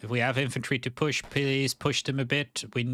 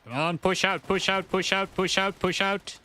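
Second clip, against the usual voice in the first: urgent urging; 7 semitones higher than usual. Real, not acted. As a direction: push them on, urgently. Urging team forward.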